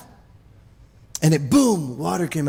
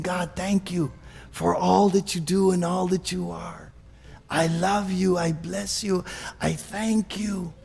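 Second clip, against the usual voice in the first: tender prayer; 2 semitones lower, 5 dB quieter than usual. Shown as a demonstration. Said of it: "You're saying".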